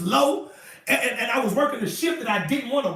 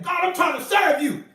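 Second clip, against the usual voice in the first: mock angry prayer. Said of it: "sitting up mad at God".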